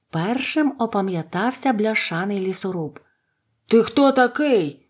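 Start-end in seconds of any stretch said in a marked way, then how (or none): 3.6-4.7 abrupt, sudden exclaimed outcry. Narrator reads the tin woodman confronting a stranger, exclaimed. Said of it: "вигукнув він".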